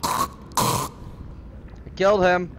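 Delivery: slow, breathless whispered disbelief; stunned whisper. Real, not acted. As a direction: let it sink in, barely voiced. Shocked after stabbing the character.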